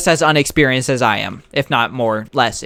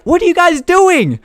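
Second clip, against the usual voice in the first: lightly voiced Josh; 13 semitones higher than usual. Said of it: "he's like".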